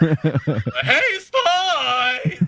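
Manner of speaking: very high, one word drawn out long. Speaker demonstrates the voice he chose to do for the line: elongated drawn-out voice. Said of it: "I figured I would just do a voice like this".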